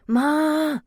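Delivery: high, loud screech for help; screeching call. Acted. Mother screeching for Ma over sick child, loud. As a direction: scream for Ma across the clubhouse. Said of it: "I screeched as loud as I could".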